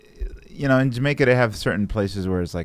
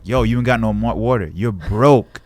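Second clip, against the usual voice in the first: louder, pressing jeer; acted scornful challenge, higher toward the end; mock taunting; 3 semitones higher, 7 dB louder than usual. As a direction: taunt them like a heckler, building in volume. Voices people mocking the broke.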